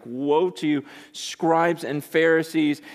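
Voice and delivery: slow, sick-at-heart cursing woe; pained cursing. Acted. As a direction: say it like it turns your stomach. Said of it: "makes you sick to your stomach type of cursing".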